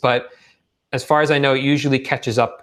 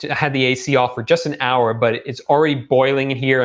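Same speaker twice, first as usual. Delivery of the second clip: losing voice. Real, not acted. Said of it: "I'm losing my voice".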